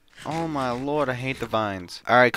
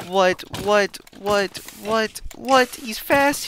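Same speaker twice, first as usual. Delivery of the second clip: rising disbelief; 8 semitones higher, slower than usual. Real, not acted. Disbelief at fast enemy.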